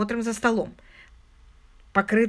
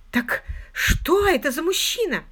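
insistent question; 7 semitones higher, 3 dB louder than usual. A narrator's reading. Visitor presses about the man.

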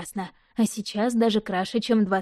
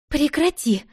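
sharp higher cry to stop; exclaiming; 6 semitones higher, slower than usual. A narrator's reading. Sister cries out at brother to stop, higher exclamation. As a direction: cut him off with a high outcry. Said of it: "воскликнула сестра".

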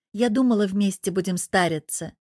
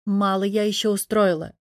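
ordinary delivery

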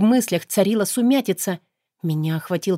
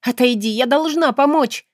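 higher, louder urgent demand; frantic plea; 6 semitones higher, 4 dB louder than usual. Acted. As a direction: push past him, desperate. Heroine pushes demon away.

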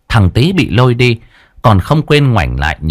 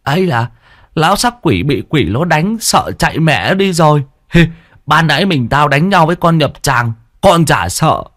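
much higher, cocky bragging with a giggle; boastful squeaky boy; 8 semitones higher than usual. A narrator's reading. Sidekick boasting about fighting the corpse, high cocky voice. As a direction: brag to cover the fear. Tý brags.

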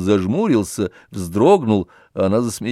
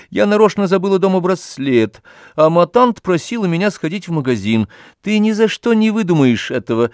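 proud, higher pitched boast; proud of her own trick; 9 semitones higher, 4 dB louder than usual. A narrator's reading. Olga proudly explains her ruse to Oblomov, proud. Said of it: "с гордостью".

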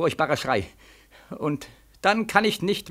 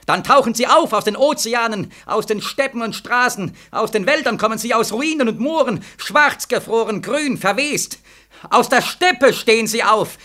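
louder and higher, building to a cry; rising dread; 4 semitones higher, 5 dB louder than usual. Acted. Haunted soldier tells the colonel of the dead, loud and rising. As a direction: let the horror swell as they rise.

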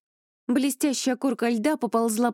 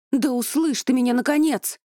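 high, loud desperate plea; desperate cry; 5 semitones higher, 5 dB louder than usual. A narrator's reading. The heroine desperate for Elai to listen, crying out loud. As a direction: cry out, begging to be heard. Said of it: "В отчаянии воскликнула я".

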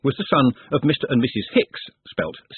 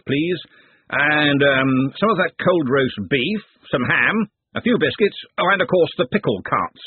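put-on higher booming old wizard voice; hearty Arch-Chancellor; 5 semitones higher than usual. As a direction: order food like a jovial host. Narrator voices Arch-Chancellor ordering food.

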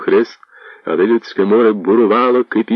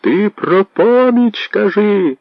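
crowd grumbling; 3 dB louder, slower than usual. Acted. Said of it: "загуло віче".

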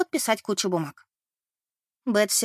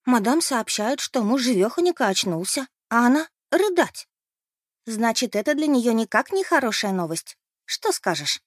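higher, eager gossiping; excited gossip; 3 semitones higher than usual. Acted. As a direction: dish the dirt eagerly. (возбуждённая сплетня)

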